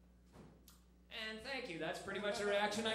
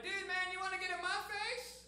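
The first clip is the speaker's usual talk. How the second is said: hammed-up tough guy, much higher and pushed; mock badass; 8 semitones higher than usual. Comic mocking a bar bully, hammed-up badass threat. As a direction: play a fake tough guy with fancy words. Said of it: "if you wanna sound like a badass".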